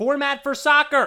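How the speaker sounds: very loud, very high, all-out shout. Reading the all-caps ending of a listener's email: yelled. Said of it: "Because he did it all caps, I had to yell it".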